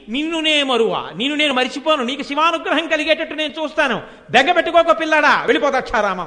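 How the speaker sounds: motherly reassurance. Acted. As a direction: send the boy off comforted.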